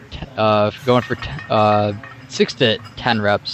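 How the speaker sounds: stammering over the numbers; stuttering. Real, not acted. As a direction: trip and restart the words. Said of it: "Sorry about all that stuttering".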